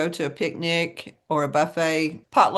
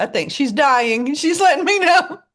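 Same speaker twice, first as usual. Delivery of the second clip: joking, near laughing; 9 semitones higher, 7 dB louder than usual. Real, not acted. Joking about co-host's card.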